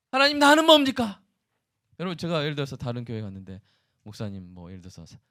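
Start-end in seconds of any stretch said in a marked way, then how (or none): 0.1-1.2 high plaintive cry with the weight on 나는; self-pitying lament. Pretend. Pastor voicing a self-obsessed believer crying to God, stressing himself. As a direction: wail 하나님, 나는 뭡니까 and press down on 나는.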